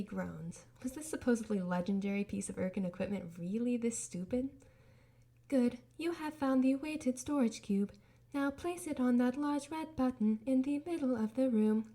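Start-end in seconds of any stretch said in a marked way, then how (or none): 5.5-11.9 lightly voiced cold AI. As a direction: speak like a calm, detached test AI. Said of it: "glados said".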